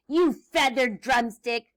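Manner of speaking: mild mock screech insult; witch's screech. Witch insults the chicken, mild mock screech. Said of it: "Grinch screeched".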